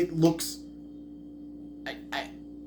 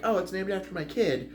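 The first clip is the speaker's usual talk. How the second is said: mildly cutesy, higher mock-dad quote; 5 semitones higher, 4 dB quieter than usual. Reviewer mocking the title's sentimental reason, mildly cutesy. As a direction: lightly imitate a cutesy dad. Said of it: "it's a cutesy, like".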